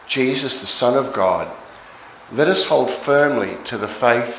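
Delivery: measured, formal Bible reading; scripture reading. Acted. Minister reading Hebrews to the congregation, formal scripture reading. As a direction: read the passage out to a congregation.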